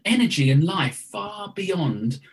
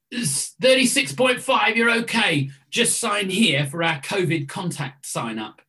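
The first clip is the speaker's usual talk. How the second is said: lightly voiced official welcome, pitched up at first; a hint of a chirpy check-in attendant; door greeter; 2 semitones higher than usual. Greeter checking temperatures at a meeting door, light role voice.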